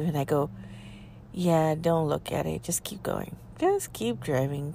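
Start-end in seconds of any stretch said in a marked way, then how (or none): 1.3-4.7 hushed urging. Retold or imitated. Telling her ex to keep driving, hushed and urgent. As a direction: keep him calm without drawing the wolf.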